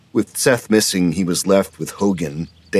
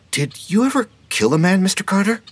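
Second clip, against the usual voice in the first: tentative; 4 dB louder than usual. A narrator's reading. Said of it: "Kendall asked tentatively".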